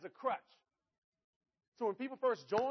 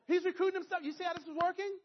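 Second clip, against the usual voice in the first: much louder and higher, thrilled; excited exclamation; 11 semitones higher, 7 dB louder than usual. Real, not acted. To the seminar crowd, thrilled and much louder. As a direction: hammer home the punchline with glee.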